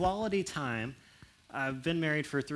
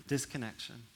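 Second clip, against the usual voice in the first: hurt; 2 semitones lower, 9 dB quieter than usual. Retold or imitated. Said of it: "they walk away going".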